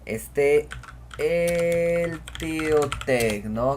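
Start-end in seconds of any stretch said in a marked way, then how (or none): 1.2-3.5 each word drawn out slowly; dictating slowly; slow dictation. Shown as a demonstration. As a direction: spell it out slowly for the class. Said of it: "quiero que la palabra esté".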